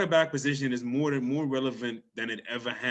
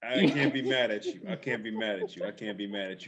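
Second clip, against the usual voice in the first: fading resignation; 4 semitones lower, 3 dB quieter than usual. Real, not acted.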